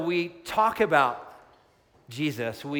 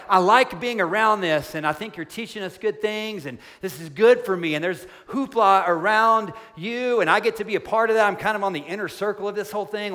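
higher and louder, a mock casual gush about the miracles; casual, starstruck Peter; 4 semitones higher, 4 dB louder, faster than usual. Pastor imitating Peter as a thrilled fan, higher and louder. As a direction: play Peter as an impressed fan, breezy and chatty. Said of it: "he's not saying".

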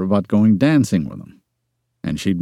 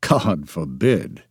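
groaning; 5 semitones lower, much slower than usual. A narrator's reading. Ty dreading his sister's meddling, groaning. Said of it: "he groaned".

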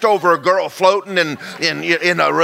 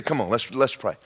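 quieter, gentle come on let's pray; soft invitation; 7 semitones lower, 7 dB quieter than usual. Retold or imitated. Preacher coaxing a troubled friend to pray, softly. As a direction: ease them into prayer softly.

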